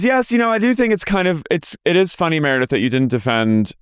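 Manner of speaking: pointed, sing-song accusation; high parody of a castmate; imitating Brittany. Mimicking Brittany.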